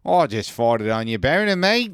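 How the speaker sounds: a quick, hammy Aussie bloke impression; Australian accent. Voicing the made-up French Italian guy in a loose Australian accent. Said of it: "He speaks with an Australian accent".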